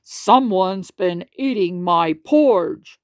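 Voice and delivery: slow, mild big-bear voice; slow and weighty as Papa Bear; lightly voiced big bear; Papa Bear shouting. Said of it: "shouted Papa Bear ever so loudly".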